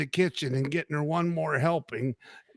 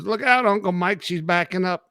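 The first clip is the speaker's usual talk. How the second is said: comedian's joke voice; 3 semitones higher than usual. Retold or imitated. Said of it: "That's the guy I'm talking about".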